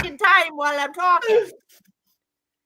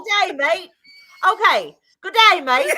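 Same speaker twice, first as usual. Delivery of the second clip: higher-pitched mock Aussie; Australian accent; 4 semitones higher, 5 dB louder than usual. Trying Australian for her friend, put-on Aussie greeting. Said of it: "an Australian accent".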